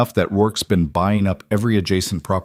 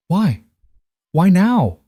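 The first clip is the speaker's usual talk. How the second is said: high, loud, rising demand; 10 semitones higher, 5 dB louder, slower than usual. A narrator's reading. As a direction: let it climb out of control. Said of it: "Her voice was rising".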